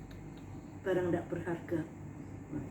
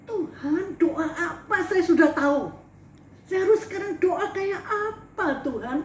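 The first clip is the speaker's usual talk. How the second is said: higher, louder, crying as she pleads; crying prayer; 5 semitones higher, 5 dB louder than usual. Retold or imitated. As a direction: sob out a desperate plea to God. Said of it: "nangis sama Tuhan".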